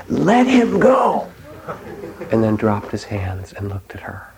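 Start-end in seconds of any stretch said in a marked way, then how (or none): 0.1-1.3 much higher, louder, slow sudden yell; yelled command. Retold or imitated. Zen master yells at grieving woman, piercing shout. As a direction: bark it out like a slap. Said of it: "and he yelled at her".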